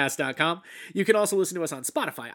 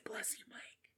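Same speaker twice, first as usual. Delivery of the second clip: whispered crowd response; whispering; 24 dB quieter, slower than usual. Pretend. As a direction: whisper it like an audience. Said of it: "Everybody in the audience say".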